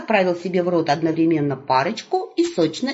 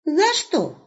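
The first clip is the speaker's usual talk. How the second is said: put-on high, bright calling out to the old man; young wolf hailing grandpa; cheerful young wolf; 9 semitones higher than usual. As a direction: call out eagerly, higher. Wolf asks bluntly.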